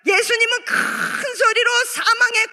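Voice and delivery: slow, long-held 큰; preacher stretching 큰 for emphasis; drawn-out stress. Real, not acted. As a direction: draw 큰 right out before 소리로. Stresses how loudly Jesus prayed.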